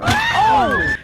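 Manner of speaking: high shocked shriek; sudden high-pitched oh. Real, not acted. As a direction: squeal at your own burn. Reacting to her own roast.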